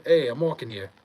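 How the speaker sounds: mock New York accent, punchy "hey"; New York catchphrase. Answering chat's catchphrase request, lightly hammed New York accent. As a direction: play the indignant New Yorker, accent lightly on. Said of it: "Do you say, "I'm walking here"?".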